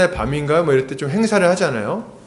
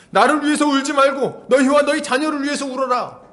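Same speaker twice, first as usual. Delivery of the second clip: fervent preaching; 8 semitones higher than usual. Acted. Preaching at rising force.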